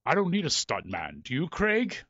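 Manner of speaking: lightly imitated macho challenge; a British actor throwing down a dare; Patrick Stewart. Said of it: "macho male thing, the challenge look".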